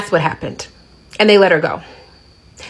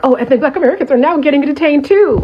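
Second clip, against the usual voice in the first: lightly mocking, higher-pitched excited quote; put-on excited voice, raised pitch; mock excitement; 5 semitones higher, faster than usual. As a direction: imitate gloaters with a touch of fake excitement. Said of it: "people really excited when they're like".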